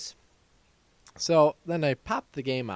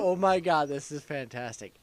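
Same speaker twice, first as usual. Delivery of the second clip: a touch of giddy awe; retold freak-out; 2 semitones higher than usual. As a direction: replay the amazed reaction, lightly. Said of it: "I freaked out".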